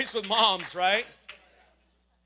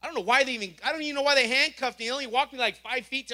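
1 incredulous; 4 semitones higher, 4 dB louder, faster than usual. Real, not acted. Incredulous aside to congregation.

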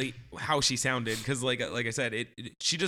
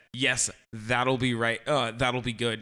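imitating barista; 5 semitones lower, slower than usual. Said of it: "that's exactly how she said it".

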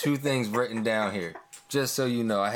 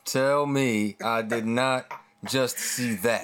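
Booker T quote, slow and emphatic; much slower than usual. Retold or imitated. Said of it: "Booker, thank you so much".

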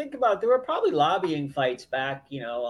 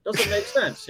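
imitating Chinese friends; 7 semitones higher, slower than usual. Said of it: "They're like".

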